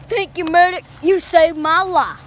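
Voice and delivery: lips kept still, words through closed mouth; ventriloquist-style, mouth shut; talking without moving mouth. Acted. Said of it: "why isn't your mouth moving?".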